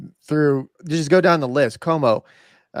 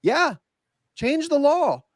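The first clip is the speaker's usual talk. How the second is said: mock Trump; 3 semitones higher than usual. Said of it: "Like, Trump says".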